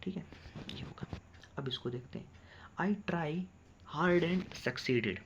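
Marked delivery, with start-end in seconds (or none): 2.8-5.2 slow dictation. Shown as a demonstration. Teacher dictates slowly.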